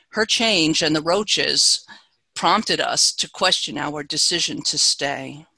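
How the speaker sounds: measured, deliberate poem reading; poetry reading. Acted. Reads poem The Marriage Pot.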